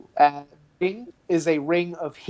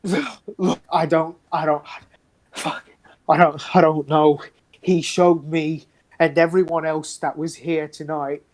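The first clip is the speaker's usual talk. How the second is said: lightly voiced cultist, rattled and apologetic; a hint of a desperate captive; shaken prisoner. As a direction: play a haunted captive owning up. Prisoner NPC confession.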